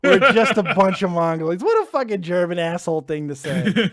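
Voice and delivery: loud, laughing through it; laughing while ranting. Real, not acted. Laughing at caller's joke.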